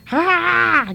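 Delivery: high gasping ha ha ha; gasping laugh. Acted. The man laughs at Holmes's name, gasping. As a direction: let the laugh burst out in gasps. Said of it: "gasped the man".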